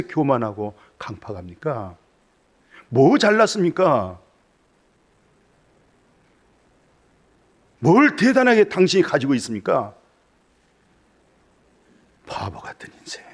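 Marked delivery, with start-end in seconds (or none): 2.9-9.9 high, loud fervent preaching; full-throated sermon climax; preaching at full force. Acted. Rebuking the congregation. 12.3-13.2 hushed whispered rebuke; a sudden whisper to the congregation. Acted.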